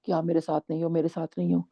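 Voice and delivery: hushed, half-whispered imitation of a tearful plea; quiet crying. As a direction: retell a private, muted lament. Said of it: "बहुत धीरे-धीरे रो रही हूँ". (धीमे-धीमे रोने की हल्की नकल)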